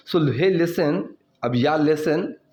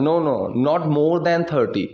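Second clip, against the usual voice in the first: slow model sentence; much slower than usual. Shown as a demonstration. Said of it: "teacher models English sentence slowly".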